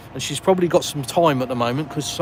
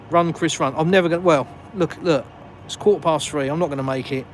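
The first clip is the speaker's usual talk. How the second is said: self-urging panic; 3 semitones higher, 3 dB louder than usual. Real, not acted. Urging himself to hurry.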